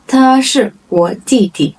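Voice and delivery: separated words for learners. Shown as a demonstration. Model sentence, slow first take.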